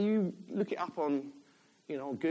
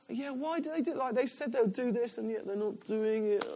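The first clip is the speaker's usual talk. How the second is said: higher, mildly whingeing tone; moaning; 5 semitones higher than usual. Retold or imitated. Preacher retelling his moan about other elders, mildly whiny. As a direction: lightly mimic your own grumbling. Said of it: "had a really big moan".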